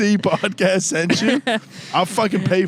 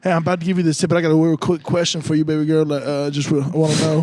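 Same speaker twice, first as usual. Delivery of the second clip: put-on African American accent. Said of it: "completely switch the accent".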